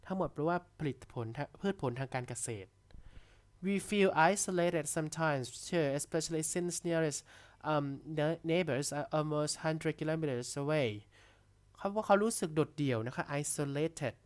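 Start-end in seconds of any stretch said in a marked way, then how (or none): 3.7-10.9 reads each English word very slowly and clearly for the class; dictation-pace reading aloud; slow textbook reading. Shown as a demonstration. (อ่านข้อความภาษาอังกฤษช้ามากให้นักเรียนฟัง)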